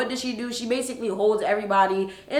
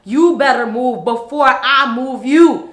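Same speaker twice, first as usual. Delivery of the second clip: loud, high, forceful warning; slow, booming acted ultimatum; threatening; 5 semitones higher, 11 dB louder, slower than usual. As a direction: punch it out as a retold threat. Acts out man threatening the woman.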